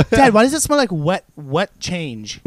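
put-on laughing through a whiny kid. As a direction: giggle out the question. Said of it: "you're like".

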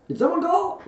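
very high, loud animal voice; perky Rabbit. A narrator's reading. Rabbit pops up behind the chair, high and eager. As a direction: pop in with an eager query. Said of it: "said Rabbit, popping up".

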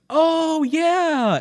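high, startled oh yeah; caught off guard. Pretend. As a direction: sound caught out, then cover it. Caught friend answers.

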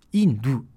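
second インド said as Mandarin Yìndù, front n; Chinese pronunciation. Shown as a demonstration. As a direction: demonstrate インド with Chinese falling tones. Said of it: "これはインドですね".

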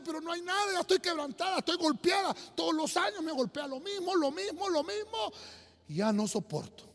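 Hannah's lament. Acted. Ana le cuenta al sacerdote su dolor, lamento angustiado. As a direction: plead like a woman worn down by years of sorrow.

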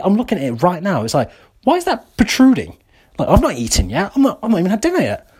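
high, rising disbelief at the mirror; recalling spotting his belly in the mirror, shocked and high; shocked at own gut. Retold or imitated. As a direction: squeal at your belly in the mirror. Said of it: "I was like".

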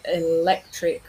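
"electric" stressed on "lec"; stress on second syllable. Shown as a demonstration. Teacher contrasting word forms, second syllable stressed in "electric". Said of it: "with the stress on the second syllable".

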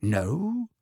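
one flat clipped no; curt. A narrator's reading. Mr Weasley refusing Malfoy, curt. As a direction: bite it off. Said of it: "said Mister Weasley curtly".

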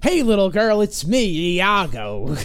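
lightly voiced cartoon parrot come-on; Iago. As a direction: call to a kid in a put-on parrot voice. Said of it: "using the parrot voice".

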